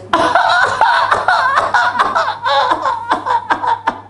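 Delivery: high-pitched hammed-up sobbing; comic crying fit; mock wailing. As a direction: imitate a friend bawling in long, shrill bursts. Imitates long-lost friend's crying.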